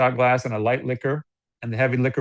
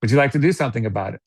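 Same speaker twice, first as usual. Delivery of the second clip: scripted question; much faster than usual. Shown as a demonstration. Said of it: "That's it".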